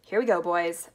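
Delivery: loud, rallying exclamation; rally everyone for the launch; forceful, eager holler; excited call. Acted. Wonka cries out as launch peaks.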